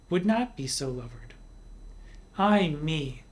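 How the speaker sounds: a lightly heightened reading of the verse; poetry reading. Shown as a demonstration. Teacher reads the poem aloud to the class, lightly heightened. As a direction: read the old stanzas with measured care. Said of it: "I will read sonnets forty-six and forty-seven".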